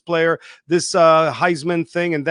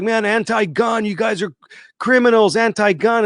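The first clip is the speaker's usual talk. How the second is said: lampoon a self-righteous activist; mock anti-gun preacher; 6 semitones higher than usual. Mocking gun critics, shrill-free hammed-up outrage, higher pitch. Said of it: "people that are like".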